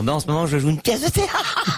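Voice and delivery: laughing actress answer; giggly actress interview. Retold or imitated. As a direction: imitate an actress filling with giggles. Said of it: "les comédiennes".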